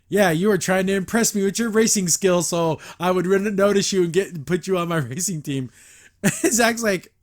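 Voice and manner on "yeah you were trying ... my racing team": louder, pleased smug tone; smug dad voice. Retold or imitated. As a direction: play the slick charming dad. Voicing the smug racer dad.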